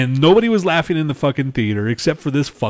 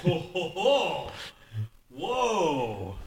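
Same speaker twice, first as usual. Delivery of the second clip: mock amused; 5 semitones higher, 9 dB quieter, much slower than usual. Mocking a boring typewriter movie.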